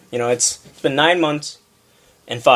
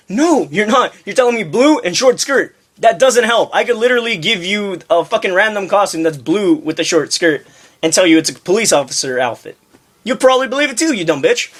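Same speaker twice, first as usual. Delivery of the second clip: acted exasperated comeback, pitched up; heated retold retort; 5 semitones higher than usual. Clerk argues with a vague costume customer, heated exasperation.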